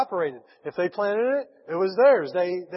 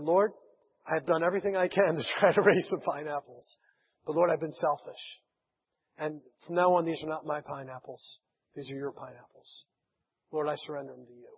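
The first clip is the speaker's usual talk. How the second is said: hushed prayer. Retold or imitated. Missionary praying alone at night.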